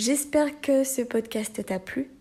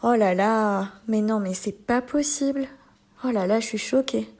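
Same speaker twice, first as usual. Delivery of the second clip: surprised. Shown as a demonstration. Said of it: "l'exprimer pour la surprise".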